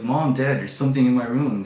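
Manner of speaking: acted alarmed shout; frightened calling out. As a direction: yell to parents through the door. Calling parents for help.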